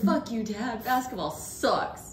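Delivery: high, stretched-out mock teen defiance; rebellious teen son. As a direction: defy dad as a hammed-up teenager. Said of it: "he'll go through a goth phase".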